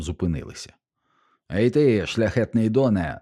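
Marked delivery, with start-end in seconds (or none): 1.5-3.2 a higher, louder hail with a falling "доне"; shouting. Acted. Rider hailing the noble from across the street, loud shout. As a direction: call out to stop the noble. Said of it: "закричав один".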